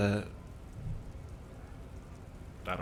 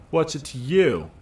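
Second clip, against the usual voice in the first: gruff dockworker; 6 semitones higher, 8 dB louder than usual. Acted. Gruff suspect voiced in game.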